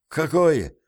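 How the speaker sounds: plaintive. A narrator's reading. Puzzled soldier asks his leader about a word, plaintive. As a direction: ask it plaintively, as a complaint. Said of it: "жалобно спросил Паркер".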